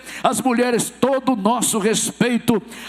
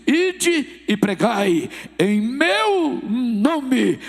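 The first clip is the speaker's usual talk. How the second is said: solemn Jesus voice; much slower than usual. Acted. Jesus speaks commissioning the seventy.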